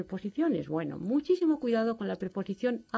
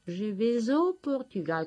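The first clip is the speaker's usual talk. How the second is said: slow model sentence; 3 semitones higher than usual. Shown as a demonstration. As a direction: say "je vais au Portugal" slowly, clearly stressing "au". ("je vais au Portugal" despacio, marcando "au")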